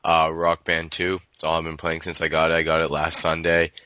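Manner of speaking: stuffy nose, sick voice; nasal voice. Real, not acted. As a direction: talk through a blocked nose. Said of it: "so if my voice sounds a bit nasal".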